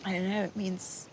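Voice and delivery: overwhelmed with gratitude, softening towards the end; crying for joy. Real, not acted. Granddaughter moved by hearing of her family, crying for joy. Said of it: "you're crying for joy".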